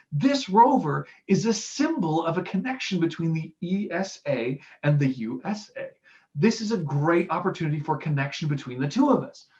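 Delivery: mildly engaged, speechmaker push; a hint of passionate oratory. Shown as a demonstration. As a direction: sell the connection with conviction. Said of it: "There's more passion, there's more engagement".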